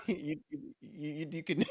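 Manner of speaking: soft words broken by laughter; laughing reply. Real, not acted. Laughing softly as he agrees with his friend's boast. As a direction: giggle through the line.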